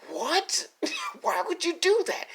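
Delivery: breathless baffled whisper; whispered what. Real, not acted. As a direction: whisper it in disbelief. Baffled reaction to plot.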